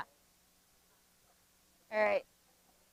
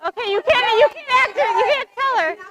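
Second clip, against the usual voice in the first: higher and louder, stopping the class; raised warning; 7 semitones higher, 4 dB louder than usual. Real, not acted. Teacher warns students not to say the answer, raised voice. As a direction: firmly cut in before they give it away.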